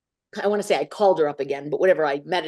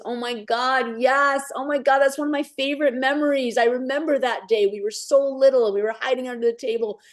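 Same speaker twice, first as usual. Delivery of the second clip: higher-pitched, overcome voice, imitating a friend; emotional outpouring, lightly acted; retold tearful reaction; 5 semitones higher than usual. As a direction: retell it as someone moved by a cherished memory. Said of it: "he started crying. He goes".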